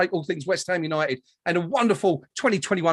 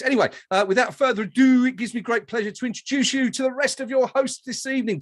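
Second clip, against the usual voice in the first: higher, projected presenter voice; show host introductions; 4 semitones higher than usual. Acted. Host introduces his co-hosts to viewers, announcer style. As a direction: roll out each name like an awards host.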